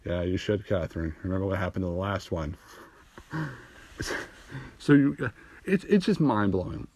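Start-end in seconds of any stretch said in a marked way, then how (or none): 0.1-2.6 quiet threat. Retold or imitated.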